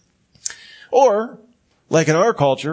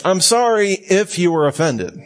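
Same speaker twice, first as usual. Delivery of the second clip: fake apology; 4 semitones higher than usual. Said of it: "What the hell does that mean".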